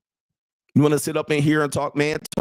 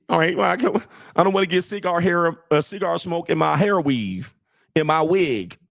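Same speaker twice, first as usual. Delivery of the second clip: higher, prissy put-on woman's voice; lightly voiced fussy woman; mock woman; 5 semitones higher than usual. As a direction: fuss about your wig, hammed up. Voicing the woman again.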